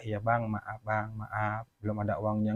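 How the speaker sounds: pengutang merendah, suara pelan dan rendah; minta maaf pasrah. Retold or imitated. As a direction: mohon maaf ke penagih dengan lirih. Pengutang dimaki, meminta maaf. (tiruan pengutang yang pasrah)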